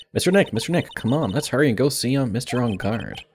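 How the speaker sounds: put-on eager young game character.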